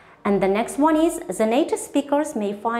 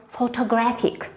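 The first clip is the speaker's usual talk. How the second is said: "photographic" stressed on the third syllable, GRAPH; careful model of "photographic", third syllable prominent; word stress demonstration. Shown as a demonstration. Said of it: "We say one syllable very loudly".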